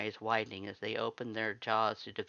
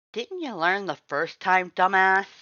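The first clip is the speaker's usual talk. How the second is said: much higher and louder snarl; angry growl; 8 semitones higher, 12 dB louder than usual. Acted. Red growls at the visitor for coming back, furious. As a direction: bark the insult at her. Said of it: "Red growled".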